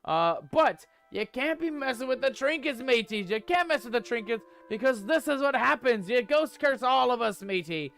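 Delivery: mock-panicked pirate captain scolding the crew; lightly voiced pirate scolding a first mate over trinkets; hammy pirate rant. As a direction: ham up a cursed pirate, "matey" tacked on. Pirate persona blames ghost curse.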